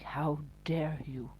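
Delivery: slow, pompous mock indignation; drawn-out, understated mock outrage; mild mock pompous. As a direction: start the indignant act with restraint. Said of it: "They do sound so pompous".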